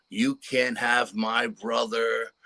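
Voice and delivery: slow, pleading cry; retold screaming. Daughter begging aliens not to take her brother, slow pleading cry. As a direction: drag it out like a scared child begging. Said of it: "starts screaming bloody murder".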